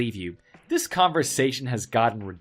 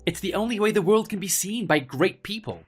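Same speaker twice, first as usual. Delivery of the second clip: arrogant; 4 semitones higher than usual. Acted. Arrogant rich villain boasting.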